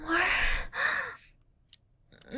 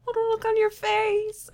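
amused; 10 semitones higher, 7 dB louder than usual. Acted. Laughing at his reaction.

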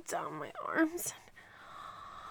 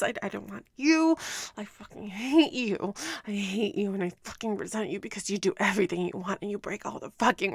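louder, lower bursts of hate; angry outburst; 4 semitones lower, 4 dB louder than usual. Acted. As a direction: spit it out at the commander. Sudden outburst at commander.

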